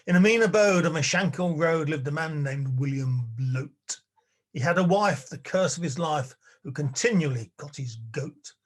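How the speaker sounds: measured, rhythmic poem reading; lilting storytelling verse; ballad recitation. Acted. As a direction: recite the comic ballad with relish. Reads a ballad aloud.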